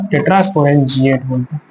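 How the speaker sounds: slow drill. Shown as a demonstration. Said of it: "क्या बोलते हैं?".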